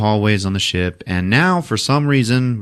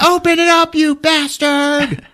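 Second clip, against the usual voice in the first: high, drawn-out furious demand; angry mock yell; 4 dB louder, slower than usual. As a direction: yell through a shut door. They yell at closed door.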